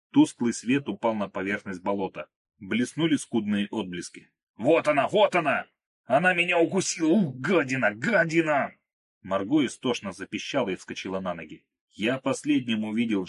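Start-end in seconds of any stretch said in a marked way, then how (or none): 4.6-8.7 much higher, louder panicked shrieking; panicked cry. Acted. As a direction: cry out in terror and disgust at the snake. Krot sees the snake that bit him.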